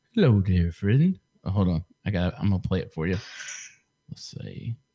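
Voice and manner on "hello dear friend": warm, friendly, folksy backwoods woodsman voice. Telling the other speaker they sound like a TikTok guy; Hawkey impression. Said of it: "You sound like this guy I watch on TikTok".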